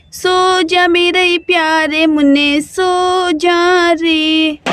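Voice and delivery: slow, tender coaxing to sleep; mother hushing her son to sleep; soothing lullaby voice. Acted. Mother putting child to sleep.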